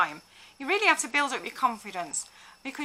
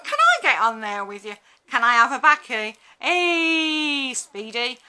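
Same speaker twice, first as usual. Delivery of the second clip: put-on cheeky old man; 7 dB louder than usual. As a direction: ask for a go like a leery old man. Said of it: "middle-aged white men who go".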